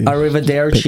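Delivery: mock-fluent Italian goodbye; show-off Italian. Shown as a demonstration. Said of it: "That's my fluent Italian".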